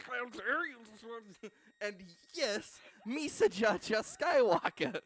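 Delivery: high, loud, slow transformation cry; shrill magical girl mid transformation; bright magical girl. Retold or imitated. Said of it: "stretching sounds of the Thing".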